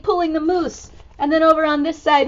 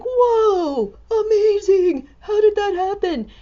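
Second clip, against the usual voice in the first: amazed elephant; 5 semitones higher, slower than usual. Acted. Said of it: "the elephant has big eyes like".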